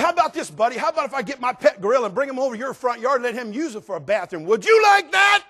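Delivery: rising sarcastic challenge that ends in a high shout; angry retort. Retold or imitated. Pastor snapping at the man with the dog, building to a shout. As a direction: lose it and yell the last question. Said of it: "falls under the wrong kind of anger".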